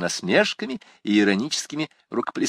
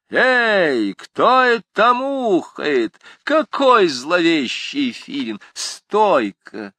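rowdy schoolboy shout; 9 semitones higher, 4 dB louder, much slower than usual. A narrator's reading. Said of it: "сказал один".

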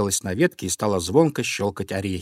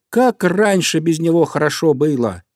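birds exclaiming together; 6 semitones higher, 4 dB louder than usual. A narrator's reading. Birds keep crying out in agreement.

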